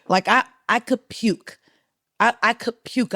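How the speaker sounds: high, queasy panic; half-laughing nerves, about to be sick; nervous. Retold or imitated. Recalling the three-day booking, mock nervous. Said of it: "I was so nervous".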